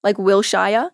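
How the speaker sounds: Wilshire said as "will-shire"; mispronounced place name. Shown as a demonstration. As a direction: rhyme the end of Wilshire with "fire". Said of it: "they pronounce a lot of things wrong".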